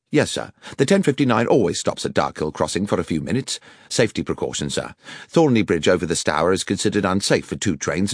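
lightly voiced railwayman explaining procedure; a touch brisk, dutiful stationman reporting. Stationman explaining the crossing stop to an enquirer, brisk and deferential.

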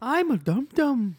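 high, slow, put-on Scottish accent; bad Scottish accent impression. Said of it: "that was your accent?".

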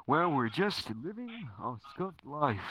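swooping announcer read; podcast host voice. Acted. Host welcoming listeners to the podcast, announcer voice. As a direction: read it as a grand show opener.

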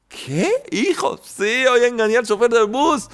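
high, bright storytelling voice; a joke character asking eagerly; high childlike voice. Acted. Father and son in a joke, high and eager.

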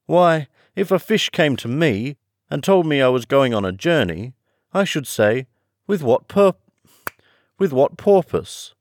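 high, loud, emphatic creature voice; swooping storybook turtle, insistent; Mock Turtle.

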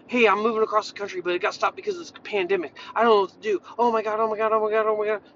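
lightly acted panic spiral, rushed at first; mock stressed-out. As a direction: babble on as if mildly overwhelmed. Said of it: "Stress flying through the roof".

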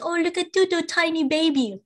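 put-on high sing-song cooing at a baby; high cooing voice for a tiny baby; baby talk. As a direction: coo it up high like talking to an infant. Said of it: "how they talk to babies like that".

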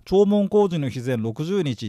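弔問工事の日前六十日 read out slowly, stressing 工; slow, deliberate. Shown as a demonstration. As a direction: read the term slowly, word by word. (ゆっくり区切って読み上げる)

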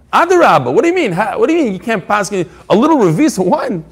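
shocked what do you mean, rising high; incredulous. Retold or imitated. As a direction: pitch leaps up in disbelief on the first question. Incredulous challenge to Rav Nachman.

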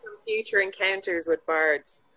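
weary cleric grumble. Acted. Cleric character grumbles at bard.

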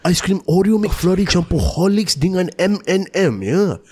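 lightly voiced radio ad read; radio announcer voice. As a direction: pitch the ice cream like an FM promo. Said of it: "The My Radio announcer voice".

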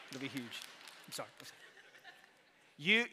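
breaking up while repeating huge; giggling apology mid-impression; laughing through impression. Real, not acted. Preacher cracking up at his own Trump voice, laughing.

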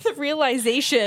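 numb-lipped slur; struggling to enunciate; slurred speech. Real, not acted. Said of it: "I can't enunciate".

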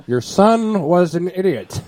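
mock bad-news call. Friend phoning the mother, slow laughing mock verdict. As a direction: break it to her bluntly, amused. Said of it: "That'd be a great call to the mother".

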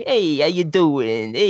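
slow, drawn-out mock greeting; put-on voice poking fun at the character; mocked movie voice. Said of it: "some of it would sound like".

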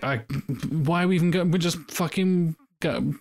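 lightly voiced swaggering Boromir; arrogant warrior. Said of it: "like, the arrogant warrior".

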